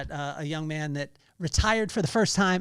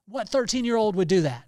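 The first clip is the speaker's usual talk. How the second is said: amazed question; 5 semitones higher, 7 dB louder than usual. Real, not acted. Amazed at kid's kindness.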